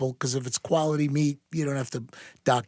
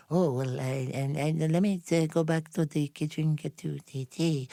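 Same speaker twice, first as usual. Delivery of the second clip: put-on Slavic accent; 4 dB quieter than usual. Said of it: "she said in her Slavic expression".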